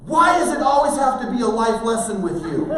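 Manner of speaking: high, loud exasperated outburst; screaming back. Retold or imitated. Son screaming back at lecturing parent, exasperated. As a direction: protest at full voice like a fed-up teenager. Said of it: "he screams back at me".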